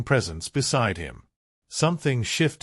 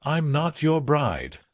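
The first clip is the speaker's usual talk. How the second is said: icy, clipped refusal; cold; 5 semitones higher than usual. Acted. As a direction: say it coldly, slightly raised. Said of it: "Elena said coldly".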